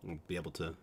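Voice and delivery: "be able to" with a reduced final tuh; Utah Mormon pronunciation. Shown as a demonstration. Streamer showing the big accent tell, "be able to" run together. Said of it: "that's the big one".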